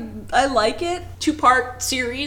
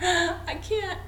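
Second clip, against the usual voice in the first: laughing it out, slow and breathless; 6 semitones higher, 7 dB quieter, slower than usual. Real, not acted. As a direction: crack up while admitting defeat. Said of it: "laughs giving up".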